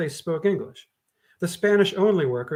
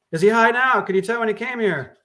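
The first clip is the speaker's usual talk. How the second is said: urgent question; 8 semitones higher, 6 dB louder than usual. Acted. Officer questions.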